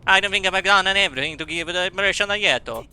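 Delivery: mock British sliding into Australian; broad, badly faked British-Australian accent. Voicing the British game character's lines, Australian-sounding British accent. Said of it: "I can't do British".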